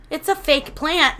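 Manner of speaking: mildly incredulous retold correction. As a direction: point out the obvious, first try.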